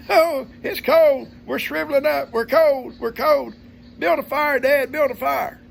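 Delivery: high, loud, slow mock whine of cold boys; drawn-out high whine, build a fire; whining kids. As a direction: whine it like freezing kids begging Dad. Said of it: "back there whining".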